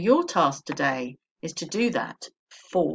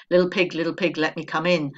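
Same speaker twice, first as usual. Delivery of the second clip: wolf; 5 dB louder, faster than usual. Acted. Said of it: "the wolf follows and says".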